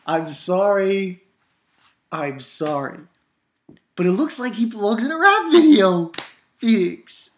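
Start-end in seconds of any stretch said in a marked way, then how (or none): 0.1-1.2 mock drawn-out apology. Shown as a demonstration. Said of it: "I'm dead serious".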